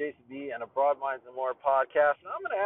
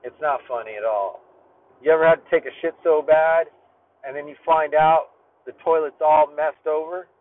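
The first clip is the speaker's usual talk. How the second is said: retold scolding; 7 dB louder than usual. Narrator scolding the laughing guy, firm and loud. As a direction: call him out firmly. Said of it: "And I said".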